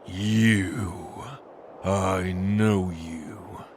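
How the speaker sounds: slow whispered recognition; menacing whisper. Acted. Angel lord whispering as he recognizes the old demon. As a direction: hiss it with loathing.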